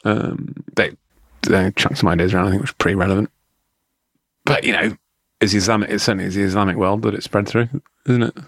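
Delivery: mock clever re-recorded take; hint of a know-it-all lecturer; voice changes mid sentence. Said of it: "I'm just gonna re-record this bit".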